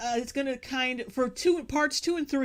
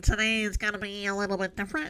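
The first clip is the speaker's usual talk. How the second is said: mock nasal voice, lower; 3 semitones lower than usual. Imitating the video speaker's opening line: mock nasal voice. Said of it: "I can't even do it".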